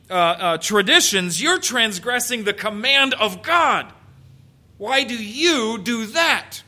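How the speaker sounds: blunt confrontation, slowing hard on the final question; pointed, insistent challenge; emphatic. Acted. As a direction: drive the accusation home, straight at them. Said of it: "He emphatically turns this discussion around".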